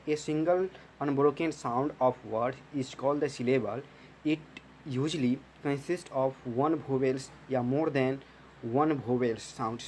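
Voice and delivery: very slow, word by word, like dictating notes; slow dictation. Shown as a demonstration. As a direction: spell the definition out slowly for the class to copy. Repeating the dictated definition. (छात्रों को धीरे-धीरे notes लिखवाना)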